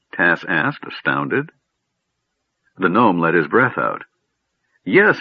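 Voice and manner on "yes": high, sudden irritated retort; snapped, disconcerted. A narrator's reading. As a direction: snap back, a bit thrown. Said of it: "he snapped, a bit disconcerted".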